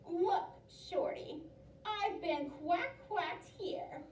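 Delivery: slow witch voice. Acted. Witch rants to farmer.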